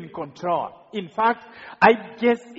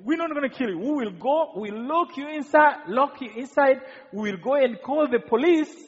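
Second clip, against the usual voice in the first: retold shout; 5 semitones higher than usual. Killer explains locking captives inside, mild retold shout. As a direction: imitate the gang leader announcing his plan. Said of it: "and then he shouts".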